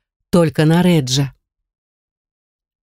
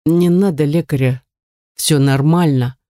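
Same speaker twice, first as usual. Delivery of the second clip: forced out in pain; 3 semitones lower than usual. Acted. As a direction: squeeze the words out, hurting. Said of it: "с трудом выдавливает друг".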